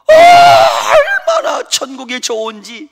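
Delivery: very high, slow, crying shout; hammed-up tearful cry; mock wailing. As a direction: wail it like a heartbroken old man. Grandpa wailing about heaven.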